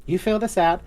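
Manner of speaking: put-on baby the newcomer kindly; cooing sweetly. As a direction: Flo soothing the forgotten adventurer. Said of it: "It says".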